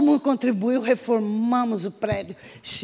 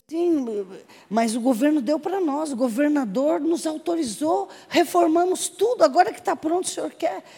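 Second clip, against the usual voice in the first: higher, insistent retold objection; cheeky protest; 5 semitones higher than usual. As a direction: argue back in a raised pitch. Acting her cheeky protest to commander. (protesto atrevido, voz mais aguda)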